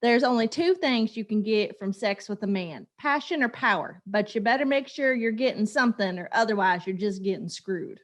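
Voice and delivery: lightly put-on Texas accent; Texas accent attempt. Mom quoting the show's mother in a light Texas accent. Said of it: "this is me trying to do her accent".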